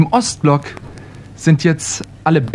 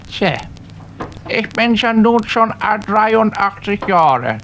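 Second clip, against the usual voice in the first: put-on a frail, chatty old man; 7 semitones higher than usual. First old man talks health.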